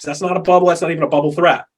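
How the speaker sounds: ordinary talk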